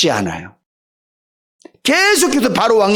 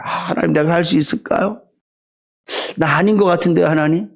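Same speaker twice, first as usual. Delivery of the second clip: doubtful Joshua; 3 semitones lower than usual. Acted. Joshua afraid he cannot lead, hesitant and low. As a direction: ask God timidly, unsure of yourself.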